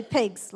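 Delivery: "pigs" with a New Zealand vowel, close to "pugs". Shown as a demonstration. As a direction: say "pigs" the Kiwi way. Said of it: "like New Zealand says it".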